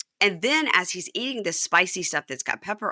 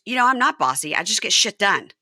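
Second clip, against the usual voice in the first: defiant wife; 4 semitones higher, 6 dB louder than usual. Retold or imitated. Wife defending herself.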